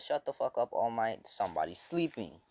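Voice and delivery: loud, annoyed telling-off, easing at the end; mock angry yell to shut someone up; pissed off. Teacher scolds All Might for disturbing a sleeper, pissed off. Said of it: "gets pissed off at this".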